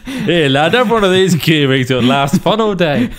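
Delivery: dad voice. Pretend. Dad voicing to son.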